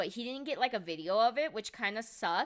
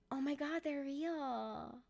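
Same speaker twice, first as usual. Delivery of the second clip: starstruck gasp; 3 semitones higher, 10 dB quieter, slower than usual. Retold or imitated. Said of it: "my brain is still like".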